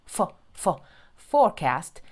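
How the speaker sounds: "for, for, forecast" with F made teeth on lip; "for" repeated slowly to isolate the F; bitten F sound. Shown as a demonstration. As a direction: bite the lip for each F in "for, for, forecast". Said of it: "F는 물어주시고".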